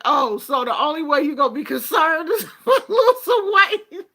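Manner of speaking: high, loud words through real laughter; laughing. Retold or imitated. A patient teasing her doctor, laughing hard. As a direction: ask it while cracking up. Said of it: "And I was just laughing".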